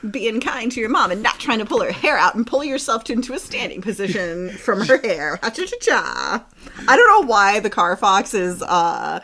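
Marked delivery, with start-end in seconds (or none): 0.1-6.4 put-on extreme hyped kids ad. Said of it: "the Car Fox sounds like this".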